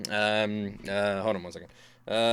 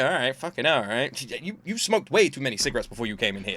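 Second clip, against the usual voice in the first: unimpressed reply. Retold or imitated. Clubgoers brushing off a would-be threat, unimpressed. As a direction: shrug it off, voice settling down after the shouting. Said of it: "No one's scared. Everyone like".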